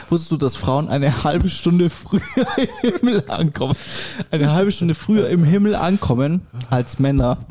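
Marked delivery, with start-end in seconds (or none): 0.1-3.8 stifled giggles. Real, not acted. Joke told through laughter.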